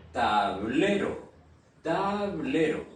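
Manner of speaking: "tablero" stressed as ta-BLE-ro; stress on second syllable. Shown as a demonstration. Teacher demonstrates the accented syllable, "tablero" stressed on BLE. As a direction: put the force on the BLE of "tablero". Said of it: "sur la syllabe est sur la deuxième syllabe".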